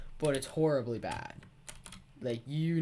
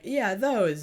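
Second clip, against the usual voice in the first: teacher voice; 7 semitones higher, 7 dB louder than usual. Retold or imitated. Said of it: "she's like".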